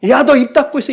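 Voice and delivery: loud, high-pitched telling-off; mock scolding. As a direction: silence the child with an acted sharp order. Acted scolding to silence someone.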